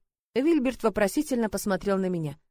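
usual speaking voice

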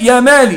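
"يا مالي" with its kasra kept on the lam; keeping the kasra. Shown as a demonstration. Teacher to students, demonstrating the kasra kept in "يا مالي". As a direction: lean on the i sound in "يا مالي". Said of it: "ببقاء كسرة اللام".

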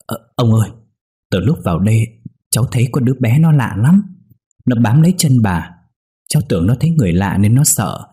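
put-on scared young tenant telling the old man about the ghost child; frightened whimpering. A narrator's reading. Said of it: "Tôi sợ hãi mếu máo nói".

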